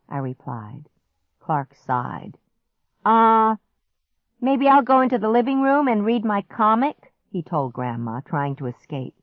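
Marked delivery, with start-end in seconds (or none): 3.0-7.1 evasive. Acted. Clark trying to escape.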